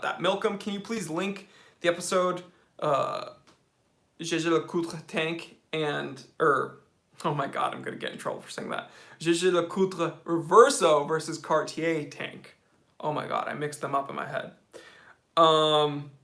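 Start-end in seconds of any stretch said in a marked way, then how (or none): 4.2-5.0 careful French pronunciation of the name; French accent. Real, not acted. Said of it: "your French accent is so funny". 9.2-12.0 slow, French-accented brand names; deliberate French pronunciation amid English. Real, not acted. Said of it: "your French accent is so funny".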